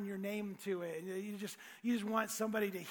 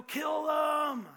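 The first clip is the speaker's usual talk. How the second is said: raised, higher mock jeer; heckling crowd cry; 6 semitones higher, 5 dB louder than usual. Mocking crowd yelling at Jesus, heckling cry. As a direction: call it out like one of the mob. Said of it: "they're telling them to".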